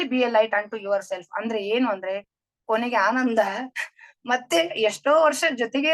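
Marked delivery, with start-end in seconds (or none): 0.0-1.3 very slow, word by word; slow solemn quote. Shown as a demonstration. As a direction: lay out each word slowly like a motto. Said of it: "English ನಲ್ಲಿ". (ತುಂಬಾ ನಿಧಾನವಾಗಿ ಗಂಭೀರ ಉಲ್ಲೇಖ)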